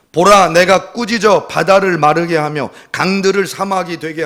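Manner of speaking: forceful solemn proclamation; scripture declamation. Acted. God rebuking Israel through Isaiah, declaimed with force. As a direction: proclaim each phrase like an oracle.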